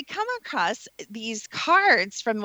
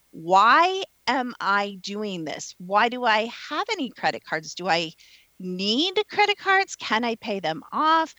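questioning yourself. Pretend. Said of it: "and say".

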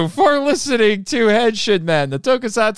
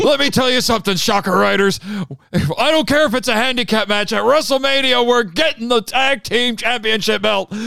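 wrestling promo; 2 semitones higher than usual. Pretend. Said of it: "cutting a promo".

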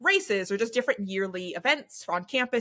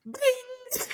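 high ringing guitar-string imitation; high "bing" of a guitar note; imitated guitar string. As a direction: mimic a plucked string, high and held. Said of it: "Just hearing that string".

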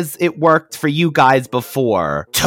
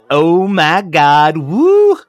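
gushing fan excitement; 3 semitones higher, 4 dB louder, much slower than usual. Retold or imitated. Reading out a fan's excited letter.

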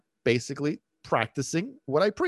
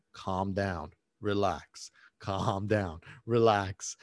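soothing coach; 3 semitones lower, much slower than usual. Retold or imitated. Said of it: "the word that I say to my clients".

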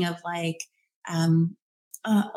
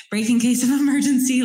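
breaks into a laugh mid-phrase, higher and louder; 5 semitones higher, 4 dB louder than usual. Real, not acted. Host repeats her own phrase and laughs at it. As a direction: giggle through the repeated phrase.

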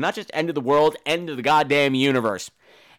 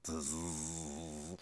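robot motor buzz; 12 semitones lower, 20 dB quieter than usual. Retold or imitated. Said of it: "robotic wheelchair".

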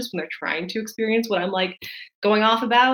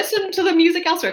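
grumbling out of touch boomer; 12 semitones higher, 3 dB louder, faster than usual. Retold or imitated. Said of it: "kind of a boomer take of".

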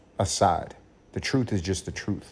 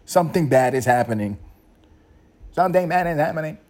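alarmed viewer; 6 semitones higher, 5 dB louder than usual. Retold or imitated. Viewer voiced reacting to odd video.

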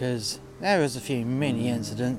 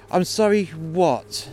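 slow, higher pointed demand; demanding more; 4 semitones higher, slower than usual. Retold or imitated. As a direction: drag out the demand. Demanding a full apology.

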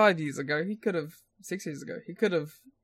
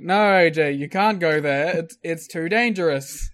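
passive-aggressive; 5 dB louder than usual. Retold or imitated. Commentators discouraging the wrestler, passive-aggressive. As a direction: feign concern, leaning on the "no". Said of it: "passive aggressively".

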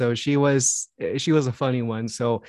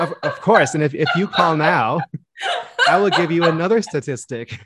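upbeat salesman pitch, laughing through it; infomercial pitchman; 5 semitones higher, 3 dB louder than usual. Pretend. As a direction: sell it like a late-night TV ad. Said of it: "it sounds like an infomercial".

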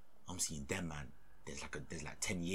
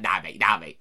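whispered warning; 12 dB louder than usual. Retold or imitated. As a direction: warn him under your breath. Boss warning him quietly.

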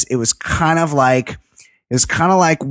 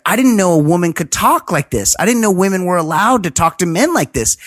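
mocking the suitor; 6 semitones higher, faster than usual. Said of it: "He's like".

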